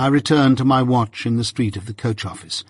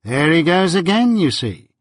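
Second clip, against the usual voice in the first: bright, raised exclamation, pitched up; lively cry; 6 semitones higher than usual. A narrator's reading. Wemmick to Pip about the turnkey, a lively cry. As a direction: cry it out as if proven right. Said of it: "cried Wemmick".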